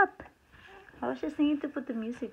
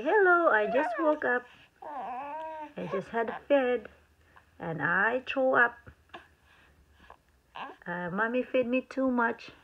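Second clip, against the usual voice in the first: voicing the baby; 4 dB louder than usual.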